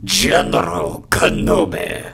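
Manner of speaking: raspy growl. Acted. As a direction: growl the name out. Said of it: "one of my other lines".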